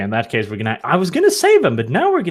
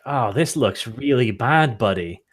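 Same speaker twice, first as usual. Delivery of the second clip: slow mock sympathy; 4 semitones lower than usual. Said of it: "go like".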